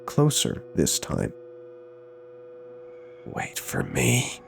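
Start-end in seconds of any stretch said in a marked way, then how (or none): 3.3-4.4 slow, soft, distant ghostly call; drawn out like a lure from the dark; eerie mimic voice. The thing calls again.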